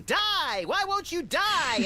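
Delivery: hammed-up furious scream; mock scream. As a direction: yell it like you're beating a thief.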